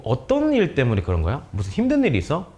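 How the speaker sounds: mildly gentle, concerned question; tender questioning. Shown as a demonstration. Teacher asking a troubled pupil for the reason, kindly. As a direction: ask kindly, inviting them to open up. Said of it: "라고 다정하게 질문을".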